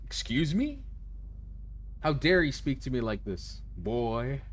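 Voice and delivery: put-on high, indignant old-lady voice; mock outraged granny scolding the boy; haughty granny. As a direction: play the offended grandmother, hammed up. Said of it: "She's like".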